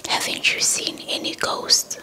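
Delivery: ordinary delivery, nothing marked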